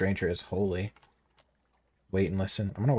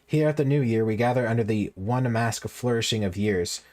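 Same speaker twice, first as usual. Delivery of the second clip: raised, solemn ceremonial call; ritual proclamation. Acted. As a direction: proclaim it to the gathered crowd. Voice speaks ritual preparation in darkness.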